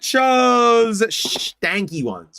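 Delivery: high, slow teasing complaint; high singsong telling-off; high mock scolding. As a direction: squeal it like a whiny scold. Mock-scolding pack choices.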